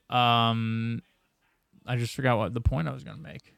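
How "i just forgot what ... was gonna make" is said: fading into a mumble; losing the thought and fading out; trailing off. Real, not acted. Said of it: "get it together, bro".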